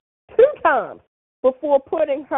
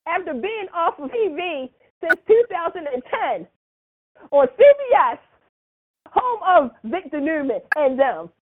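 rising, louder announcer build-up; hype announcement; 4 semitones higher, 4 dB louder than usual. Real, not acted. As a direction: present her like a big star entrance. Hyping a casting announcement.

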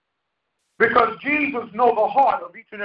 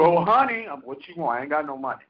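sugary then dropping soft and low, lower and softer; wife sweet-talking, then pleading broke; wife's sweet-talk; 7 semitones lower, 7 dB quieter than usual. Retold or imitated. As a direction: coo honey, then mutter the catch. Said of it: "And she do it too".

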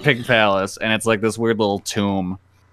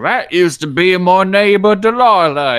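high, slow dim-witted villager; simpleton voice; 8 semitones higher, 7 dB louder than usual. Retold or imitated. Villager mourning his pig, in a high, slow simpleton voice. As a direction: play the slow simple villager, loud and drawn out. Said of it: "talk to the simpleton".

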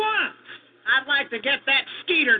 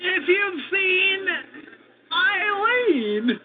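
slow, strained, holding back laughter; suppressing giggles; 7 semitones higher, much slower than usual. Acted. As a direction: fight off the giggles while asking. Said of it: "barely able to control his giggling".

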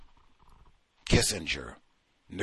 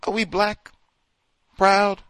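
higher, louder rallying cry; mock rally call; 9 semitones higher, 7 dB louder than usual. Jim Jones calling to his followers, loud and high. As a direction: pump up the crowd. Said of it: "when he says".

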